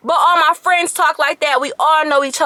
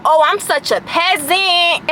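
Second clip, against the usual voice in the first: mock insult; slower than usual. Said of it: "starts telling me how".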